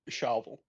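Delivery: correcting a mishearing; "shovel" corrected. Shown as a demonstration. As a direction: clear s-h start on "shovel". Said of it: "you forgot the S at the start".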